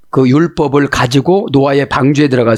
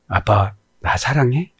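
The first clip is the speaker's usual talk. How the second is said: softer, slower, coy; soft childlike ask; 5 dB quieter than usual. Retold or imitated. Daughter asking her father, soft and slow. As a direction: ask it gently like a little girl.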